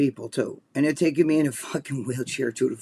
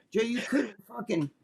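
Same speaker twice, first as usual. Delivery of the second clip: hushed aside; 6 semitones higher, 7 dB quieter than usual. Real, not acted. Telling Joe about the ordeal.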